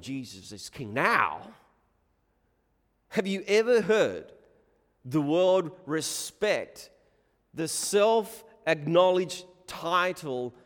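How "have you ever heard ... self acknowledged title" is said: slow, raised-pitch rhetorical question; measured, high-pitched pulpit challenge; challenging preaching. Acted. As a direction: put it to the congregation emphatically, word by word. Challenges the congregation.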